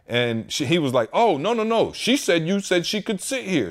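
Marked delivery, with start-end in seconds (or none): 1.1-3.7 high mock drunk passenger protesting; imitating the rude drunk guy, higher; lightly voiced drunk man; drunk guy's whine. Drunk man arguing with stewardess.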